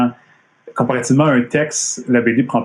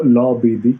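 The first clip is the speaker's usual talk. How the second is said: Montreal French way of saying the letter A; Montreal accent; slower than usual. Shown as a demonstration. Contrasting with the intended pun, in a Montreal accent. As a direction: say "La" as a Montrealer says it reciting the alphabet. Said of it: "comme je dis en disant l'alphabet".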